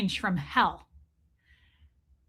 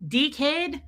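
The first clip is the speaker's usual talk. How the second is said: Australian accent; 5 semitones higher than usual. Shown as a demonstration. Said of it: "if you wanna be Australian".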